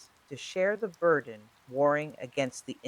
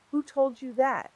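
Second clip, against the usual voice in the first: much higher, sharp demand; 12 semitones higher than usual. A narrator's reading. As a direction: snap the question out. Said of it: "Aileen asked sharply".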